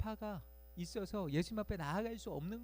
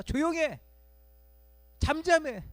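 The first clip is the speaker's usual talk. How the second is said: much higher, loud hushing order; harsh shout; 10 semitones higher, 9 dB louder than usual. Retold or imitated. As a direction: silence the beggar. Crowd silences Bartimaeus. (조용하라고 소리치는 군중)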